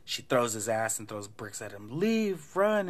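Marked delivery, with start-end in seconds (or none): 2.0-2.9 high, loud mock warning; acted cry, pitched way up; urgent retold yell. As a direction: yell it like chasing someone off. Retold screaming at him to flee.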